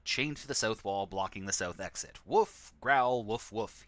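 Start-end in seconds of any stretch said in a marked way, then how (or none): 2.3-3.9 lightly voiced dog, louder on the first woof; a mild mock bark and growl; guard dog barking. Narrator reading the guard dog's line as a light mock bark. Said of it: "he says".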